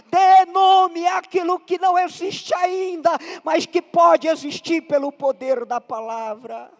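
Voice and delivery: insistent exhortation building on a refrain; preaching. Acted. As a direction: urge the congregation on, phrase after phrase. Exhorts congregation in repeated refrain.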